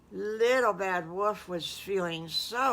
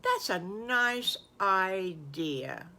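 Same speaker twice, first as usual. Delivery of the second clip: Mister Farmer Brown; slower than usual. Acted. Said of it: "Mister Farmer Brown says".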